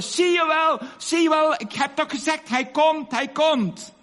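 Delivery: high, excited retold shouts; triumphant shouting. Old woman to the villagers who doubted her, shouting. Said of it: "bleef ze maar schreeuwen".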